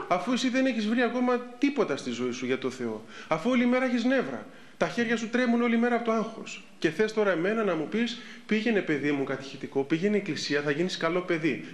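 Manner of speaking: mock the nagging parent with a laugh; a child's scoffing retort. Child mocking the preaching parent.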